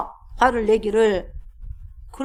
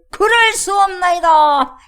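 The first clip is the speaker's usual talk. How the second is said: higher, louder, slow defiant declaration; mock stubborn refusal; 6 semitones higher, 6 dB louder, slower than usual. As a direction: proclaim the refusal with pompous defiance. Mocking stubborn servant's refusal. (고집스럽게 크고 느리게 선언하듯)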